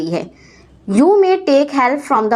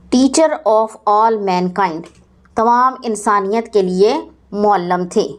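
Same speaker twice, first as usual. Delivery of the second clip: naat recitation. Acted.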